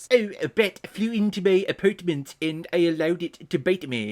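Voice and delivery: put-on British into nerd voice. Imitating a man's attempted British accent, a Simpsons comic-shop-owner voice. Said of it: "coming off more as like comic book shop owner from The Simpsons".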